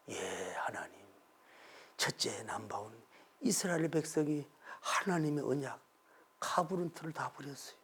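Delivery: hushed, half-whispered lament; a despairing prophet whispering to God; weary complaint. Acted. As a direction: pour out complaints in a low whisper.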